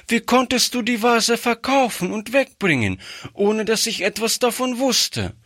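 put-on upset child. Girl begs her grandfather over the sold vase, high upset child voice. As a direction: plead like a distressed child.

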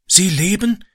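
high, halting question; gasping. A narrator's reading. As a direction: gasp the question anxiously. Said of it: "keuchte Ram".

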